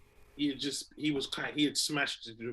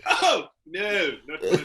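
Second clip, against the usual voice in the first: mock panic; 3 semitones higher, 9 dB louder than usual. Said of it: "and I said".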